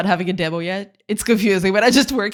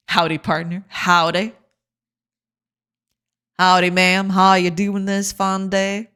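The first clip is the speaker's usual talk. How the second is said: lightly drawled western cowboy; slow cowboy drawl, lightly done. Pretend. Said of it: "I'm not sounding like a cowboy".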